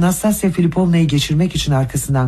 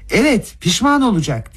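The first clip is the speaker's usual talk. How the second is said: high raised shout; 7 semitones higher than usual. A narrator's reading. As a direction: yell it out as a threat. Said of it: "diye bağırdı Rogojin".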